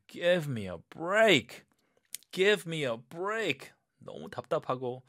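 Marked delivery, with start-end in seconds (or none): 0.1-3.7 higher, fed-up sigh of a line; higher exasperated give me a break. Acted. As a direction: plead for mercy in annoyance. Exasperated at being late.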